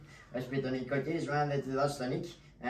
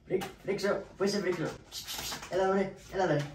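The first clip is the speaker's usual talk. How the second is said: raised calling voice to a dog; master calling his dog Frixos to come here; 6 semitones higher than usual. Acted.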